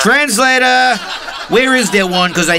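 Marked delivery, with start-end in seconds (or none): 0.0-1.0 exasperated shout. Acted. Demanding a translator.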